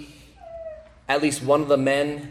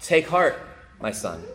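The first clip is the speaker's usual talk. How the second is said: intimate, dropping to a hush on my son; intimate words; 4 semitones higher than usual. Acted. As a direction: speak close, like a father. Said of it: "in very intimate language".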